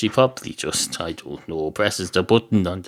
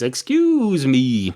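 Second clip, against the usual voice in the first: indignant; 3 semitones higher, much slower than usual. Acted. Woman objects to being called a nuisance, indignant. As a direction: stretch it slowly in affront.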